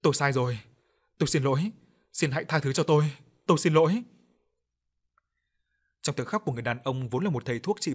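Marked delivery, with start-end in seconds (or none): 0.0-4.0 a pleading cry that swells louder; shouting plea. Acted. Guilty healer begs the village for forgiveness, building to a shout. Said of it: "không ngừng hét lên".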